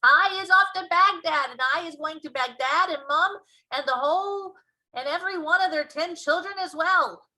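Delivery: very high, loud brutish yell; a man-eating giant bellowing as he gallops past; loud, high hammed-up giant shout; giant's shout. A narrator's reading. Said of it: "shouting at me".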